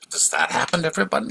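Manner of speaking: high, fast alarmed question; naive young prince. Retold or imitated. Prince asking the guard about the sick man, high fast worried question. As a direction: blurt it out like a startled boy.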